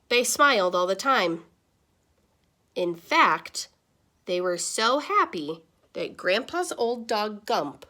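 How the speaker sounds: put-on lively read-aloud to kids; animated classroom storytime voice; story narration. A narrator's reading. Reads picture book aloud.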